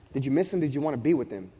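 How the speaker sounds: tender question. Retold or imitated. Husband asking wife about their newborn, gently sincere. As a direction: ask it gently and low.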